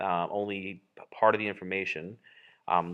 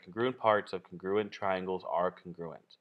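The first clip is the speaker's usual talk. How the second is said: slow, measured repeat for learners; a little slower; 2 semitones lower, slower than usual. Shown as a demonstration. Teacher repeats what the letters stand for, a little slower. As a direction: spell the phrase out at a slower pace. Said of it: "I'll say it again a little slower".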